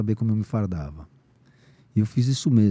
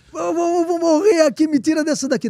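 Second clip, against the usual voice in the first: much higher, louder pleading yell; desperate yell; 6 dB louder than usual. Retold or imitated. Begging the inspector to take him to hospital, retold yell. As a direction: beg to be taken out of here, shouting. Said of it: "Dei um maior berro".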